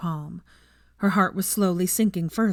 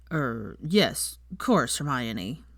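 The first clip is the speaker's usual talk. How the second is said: low, slow, halting giant voice; stammering; 5 semitones lower, much slower than usual. Acted. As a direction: stumble over the words. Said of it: "he stammered".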